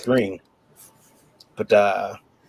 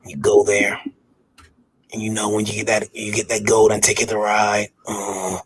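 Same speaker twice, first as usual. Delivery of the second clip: perv voice. Pretend. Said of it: "Do it in the perv voice".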